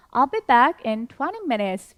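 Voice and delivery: slow, clear example sentence; slow model reading. Shown as a demonstration. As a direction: read slowly for learners. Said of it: "같이 읽어보도록 하겠습니다". (학습자를 위해 천천히 읽는 예문)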